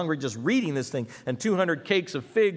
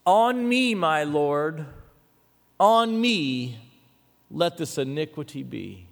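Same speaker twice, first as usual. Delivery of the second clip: proclaimed verse with long pauses; scripture plea; 5 dB louder, slower than usual. Acted. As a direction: read her plea out with force, then settle. Reads the plea aloud.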